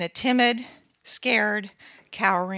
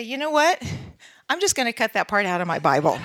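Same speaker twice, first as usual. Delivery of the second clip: mock teasing; faster than usual. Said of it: "my girlfriends and I would tease".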